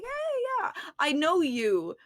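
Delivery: high, friendly Fae lady greeting, lightly voiced. Fae lady greets the party as old friends, high and bright. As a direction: chirp it up high like a fae stranger. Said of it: "this Fae lady who's just like".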